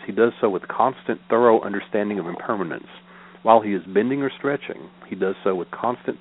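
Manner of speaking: measured, evenly phrased sutra recital; formal reading aloud of Buddhist scripture. Acted. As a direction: read the teaching out in steady, repeating cadences.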